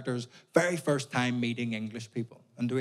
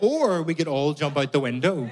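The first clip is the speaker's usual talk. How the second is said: sarcastic; 2 semitones higher, 4 dB louder than usual. Retold or imitated. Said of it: "I was like".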